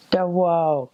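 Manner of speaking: high, breath-heavy mock-angry Quebec cry; hammed-up whispery outrage; imitating mad lady. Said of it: "this lady was very mad at us".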